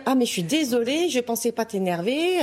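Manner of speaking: high-pitched mock apology; excuse exagérée imitée. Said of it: "elle revient en plus pour me dire". (fausse excuse d'une voix haut perchée)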